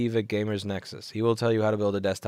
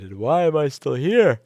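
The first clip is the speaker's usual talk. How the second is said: exasperated outburst; 5 semitones higher, 9 dB louder than usual. Real, not acted. Exasperated tired shout.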